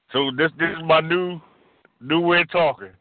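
slurred speech after a stroke; mushy, toothless speech. Real, not acted. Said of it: "I'm gonna sound like this".

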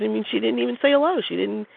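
a touch of outrage on his behalf; mild indignant friend. Retold or imitated. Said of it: "is indignant about this".

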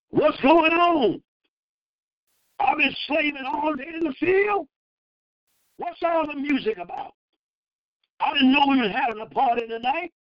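indignant, put-out complaint with a rising shout; aggrieved son's complaint; resentful son. Acted. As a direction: act out the sulking son demanding answers. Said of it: "Watch his attitude".

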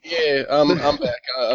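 normal talking voice

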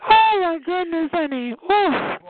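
high exclamation of delight; thrilled. Real, not acted. Reacting to all the yelling, high and thrilled. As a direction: exclaim up high, relishing the uproar.

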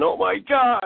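mock screaming, pitched high; Dee Dee. Recalling a friend caught in the fireworks, mock scream. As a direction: imitate a panicked scream, half laughing. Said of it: "Dee Dee screaming".

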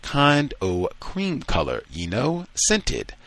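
slow teasing drawl, climbing high on the last word; a lightly voiced sneer from a fellow slave; mocking. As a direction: needle him with mock admiration. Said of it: "he is mocked as white".

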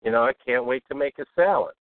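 mildly upbeat, brisk demo; lightly peppy radio-host delivery; a little upbeat. Shown as a demonstration. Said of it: "sound a little more upbeat".

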